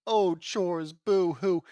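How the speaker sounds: mock a whiny kid's complaint; mocking whine.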